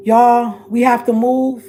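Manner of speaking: rally the viewers with a loud call; urgent loud call. Real, not acted.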